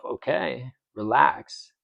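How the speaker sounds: recounted inner voice, easing off; calm self-reminder. Retold or imitated. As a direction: talk yourself down calmly and quietly. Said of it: "catch myself and remind myself".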